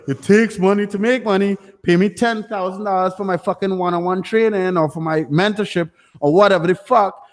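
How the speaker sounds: a lightly voiced smug mentor selling training; mocking guru pitch. Streamer mocking money gurus, a lightly put-on sales-pitch voice. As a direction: sneer it like a cheap online guru. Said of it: "like, simple cunts, like".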